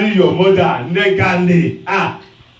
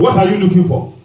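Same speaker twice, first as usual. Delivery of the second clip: mock angry shout, higher; imitating a shout; 5 semitones higher, faster than usual. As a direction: throw the question back at them. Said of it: "You will shout at them".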